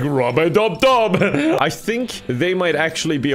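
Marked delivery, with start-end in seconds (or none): 0.0-1.2 louder, slow singsong bathtub chant; sleeping man voice. Retold or imitated. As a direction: chant it like a happy bather. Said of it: "He's like".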